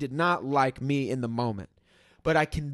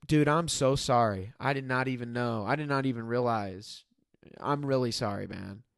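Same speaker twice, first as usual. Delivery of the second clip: retold apology; 4 semitones lower than usual. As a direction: say sorry sincerely in a retelling.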